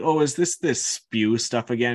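lightly voiced dismissive jibe; sarcastic Ron. Ron to Hermione heading to the kitchen, mildly sarcastic. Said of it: "It was Ron sarcastically calling it".

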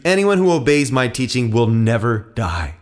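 measured, weighty declaration; calm, authoritative scripture reading; solemn promise. A narrator's reading. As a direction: state it as a sure promise. Jesus solemnly promises the crowd.

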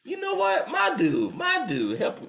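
high, pleading cry for help; hammed-up begging; mock plea for help. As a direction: squeak out a desperate help. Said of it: "I was like".

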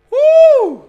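loud, high whoop of excitement; excited woo. Real, not acted. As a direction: let out a big hype whoop. Hyped cry after announcing trip.

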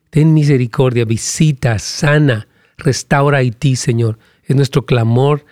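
earnest intercession, pleading for a country; prayer. Acted. Pastor praying for Haiti after listener's request, earnest prayer. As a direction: pray it out, steady and fervent.

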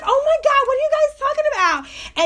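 high-pitched imitation of an excited white girl. White girl butting into the conversation, high excited mimicry. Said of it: "the white girl came up".

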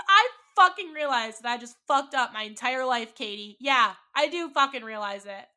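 loud, high retold tearful outburst; crying. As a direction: imitate him crying out. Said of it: "He starts crying".

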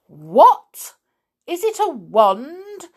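loud burst, rising high; astonished cry. A narrator's reading. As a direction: blurt it out in amazement. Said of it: "cried Mister Grimm in astonishment".

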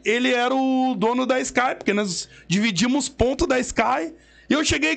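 ordinary delivery

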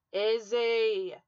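a furious shout of her name; angry yell. A narrator's reading. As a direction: bellow her name in rage. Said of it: "he yelled".

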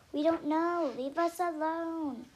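high, loud retort, stretched at the end; exasperated shout. A narrator's reading. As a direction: yell at someone pestering you. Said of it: "they shout".

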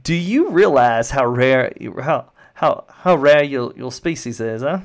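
henchman relishing the threat; gloating guard. Acted. Guard tells captive of the highest bidder, gloating. Game master voices taunting guard.

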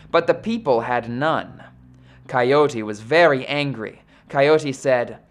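measured storyteller reading aloud; story narration. A narrator's reading. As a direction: read it like an old legend. Rereads the myth aloud.

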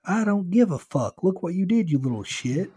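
high, loud outburst, easing at the end; angry shouting. A narrator's reading. Driver cuts off pleading kid, shouting angrily.

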